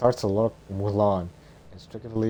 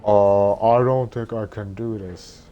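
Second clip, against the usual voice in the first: put-on young woman voice; 9 dB louder than usual.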